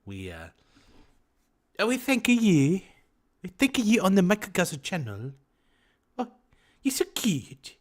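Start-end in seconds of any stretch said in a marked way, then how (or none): 1.8-7.7 high, loud caricatured Asian woman voice; hammed-up Asian-accented falsetto thanks; mock Asian woman accent. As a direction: pitch way up in a put-on Asian accent. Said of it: "I'm speaking like an Asian woman".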